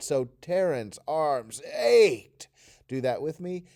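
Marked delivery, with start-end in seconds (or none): 0.4-2.5 ached voiced as a loud, sore groan. Demonstrating a sentence for listeners to repeat, with an achy groaning sound. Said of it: "So say ached with that sound. Ugh".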